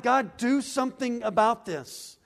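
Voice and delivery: crying out to God. Acted. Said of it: "he's crying out to God".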